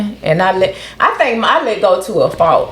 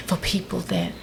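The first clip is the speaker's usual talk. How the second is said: voice changes; 12 dB quieter than usual. Real, not acted. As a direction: voice drops away, very soft. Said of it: "Why did the voice change".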